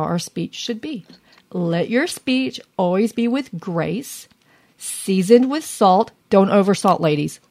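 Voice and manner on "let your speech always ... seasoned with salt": scripture reading. Acted.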